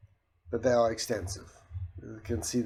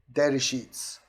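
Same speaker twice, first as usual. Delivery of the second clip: louder command at an ordinary pace; 3 semitones higher, 5 dB louder than usual. Shown as a demonstration. Asking the software for data sheets, louder voice command. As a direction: call it out to the machine.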